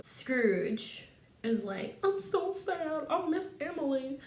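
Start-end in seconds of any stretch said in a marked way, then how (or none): 2.0-4.2 hammed-up grieving, pitched up; mock sadness. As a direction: whine it as if badly faking tears. Scrooge grieving his sister.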